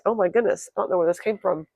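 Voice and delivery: hoarse, croaky throat after a cold night. Real, not acted. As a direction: talk through a croaky throat. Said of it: "I'm so sorry for my croaky voice".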